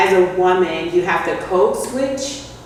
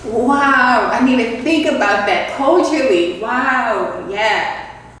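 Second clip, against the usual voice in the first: amazed reaction; 5 semitones higher than usual. Real, not acted. Host reacts to new insight.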